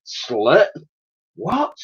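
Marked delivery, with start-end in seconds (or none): 1.4-1.8 very high rising squeak of surprise; startled, high-pitched question; exclaimed. A narrator's reading. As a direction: shoot up in disbelief. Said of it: "exclaimed Elsie".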